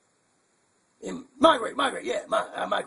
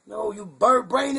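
talking like the bird; much slower than usual. Acted. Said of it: "you got me talking like you".

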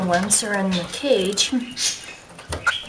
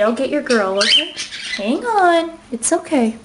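soothing pet talk; 4 semitones higher than usual. Real, not acted. Soothing squealing bird.

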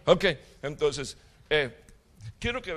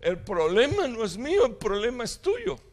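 higher-pitched, insistent reproof; indignant Lord; 8 semitones higher than usual. Retold or imitated. The Lord answers that man, indignant. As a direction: throw the blame back, voice raised in pitch. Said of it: "qué le estaba diciendo el Señor a ese hombre".

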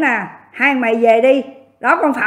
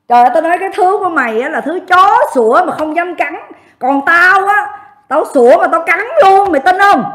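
raised, loud, combative challenge; defiant taunt; 4 semitones higher, 5 dB louder than usual. Real, not acted. Streamer dares rival who only barks, loud defiant taunt. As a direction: throw it down as a loud, high dare.

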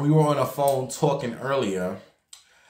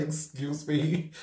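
mock outrage; 3 semitones higher, 6 dB quieter, slower than usual. Disbelief at nurse's answer.

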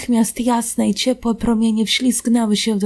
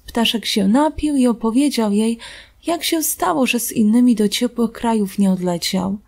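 ordinary delivery, nothing marked

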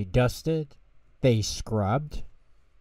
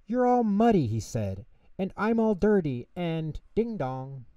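high, flustered mouse voice; dismayed fretting; 8 semitones higher than usual. A narrator's reading. Tutter sees his muddy friends, high dismayed fluster. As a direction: complain in high-pitched dismay.

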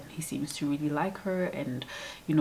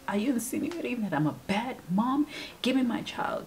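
higher-pitched mock-offended demand; indignant mother; 7 semitones higher than usual. The wife snapping at the maid, in a mock-indignant voice. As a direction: play the affronted mother, half-hammed.

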